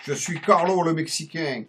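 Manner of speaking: put-on a comic Mexican accent on French throughout. Carlo le Mexicain rants about Bolloré in a Mexican accent. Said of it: "faites pas attention à mon accent".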